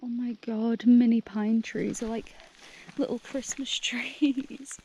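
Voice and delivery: high, slow cooing over something cute; slow high cutesy voice. Real, not acted. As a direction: coo like at a puppy. Cooing over tiny pine trees.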